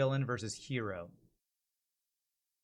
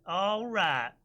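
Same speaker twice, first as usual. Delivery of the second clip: lawman take; 5 semitones higher than usual. Shown as a demonstration. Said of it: "I'm gonna go with all right".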